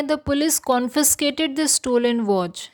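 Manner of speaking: very slow, careful teacher reading; slow example sentence. Shown as a demonstration. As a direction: read it out slowly for learners.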